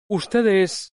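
rising a little in mild surprise; a touch of wonder at seeing him; surprised. A narrator's reading. Lubova to the student, mildly surprised. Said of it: "observándole con sorpresa".

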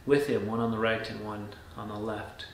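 measured, solemn Bible reading; scripture reading. A narrator's reading. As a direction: read the Passion account aloud with steady phrasing. Reads Scripture aloud.

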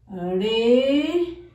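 "re" with a soft tapped R. Shown as a demonstration. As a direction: say "re" with a gentle, light R. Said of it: "suena suavecito".

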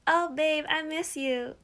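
plastic, overly sweet phone voice; fake-sweet talk to a partner. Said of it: "Why do you sound so fake?".

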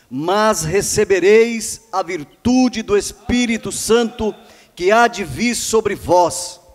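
projected, declamatory church address; pulpit exhortation. Real, not acted. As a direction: proclaim it to the congregation, drawing out key words.

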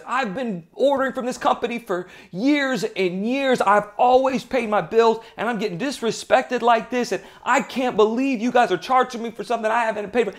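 retold angry client complaining to the CEO, indignant; irate customer. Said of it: "And he's very irate".

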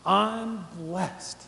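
drawn out, heartfelt "I'm blessed"; with feeling. Shown as a demonstration. Preacher showing listeners how to say it, with feeling. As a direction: say it slowly and mean it. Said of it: "say it with some feeling".

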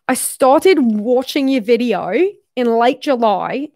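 careful put-on Australian accent. Shown as a demonstration. Reading a viewer's praise of her videos, put-on Australian accent. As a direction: read the letter out in an imitation Australian accent. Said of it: "everyone rates my accent so much".

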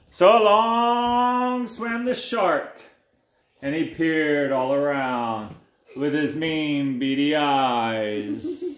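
slow, stretched storyteller lines; picture-book menace with lingering final words; suspenseful story narration. A narrator's reading. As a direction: draw out the villain's entrance. Reads picture book to child.

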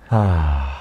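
long deflated sigh; resigned sigh. Real, not acted. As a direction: let out a heavy sigh. Cruise plan dashed, sighs.

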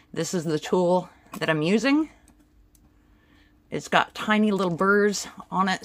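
talking through a face mask; muffled behind a mask. Real, not acted. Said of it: "trying to talk with the mask on my face".

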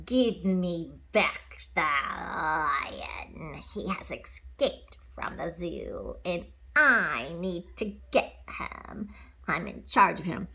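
low, very slow villain demand; low, slow, drawn-out villain voice; stern villain. Acted. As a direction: play the hunter demanding her lion back. Parent voices villain Du Bois.

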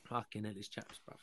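mock cold, whispered; hushed, shivering mock complaint about the cold. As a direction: whisper it as if freezing. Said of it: "only say chaps when it's cold".

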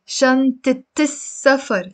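شنطة as shantit before السفر; shantit, T linked onward; Lebanese kasra ending. Shown as a demonstration. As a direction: sound -it at the end of شنطة. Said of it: "the fatha becomes a kasra".

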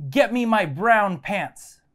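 hammed-up but moderate yell; mock captain's yell. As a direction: call it out slowly like a captain in a joke. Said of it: "And he yells".

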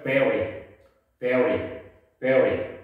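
teacher repeats vary low and even; vary said three times, first syllable stressed; model pronunciation. Shown as a demonstration. Teacher drills vary for class, steady repetition. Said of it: "때려보세요".

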